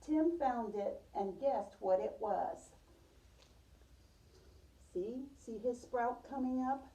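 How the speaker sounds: storybook read-aloud for a class; gentle read-aloud voice; reading to children. Acted. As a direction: tell it like a picture book to little kids. Teacher reads picture book aloud.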